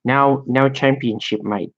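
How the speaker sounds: badly faked Australian, dropping off on "mate"; hokey Australian put-on; bad Australian accent. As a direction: try a clumsy mock Australian. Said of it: "I guess that's Australian".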